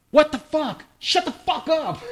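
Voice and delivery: half-hearted mock yell at the wall; retold snap through the wall; retold yell at the neighbor. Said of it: "I was just like".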